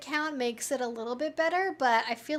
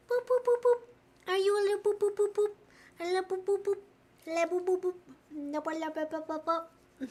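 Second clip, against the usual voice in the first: higher sing-song "boop" chant; 6 semitones higher than usual. Real, not acted. Booping her dog's nose in a high playful voice. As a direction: tap out each boop playfully.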